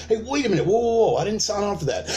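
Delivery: high, startled protest; mock alarmed backpedal. Ally balking at violence, high alarmed protest. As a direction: pull back fast, alarmed.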